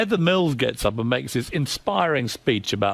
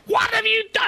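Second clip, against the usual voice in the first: retold scream. Ex-wife screaming down the phone at the columnist, shrieking yell. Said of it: "come screaming".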